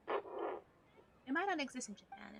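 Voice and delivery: slow hushed whisper. Real, not acted. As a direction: whisper it slowly. Conspiratorial aside.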